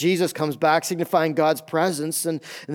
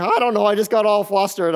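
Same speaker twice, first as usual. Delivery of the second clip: higher, flustered wife imitation; mock her helpless excuse, pitched up a bit; imitating flustered wife; 3 semitones higher, 3 dB louder than usual. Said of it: "she's like".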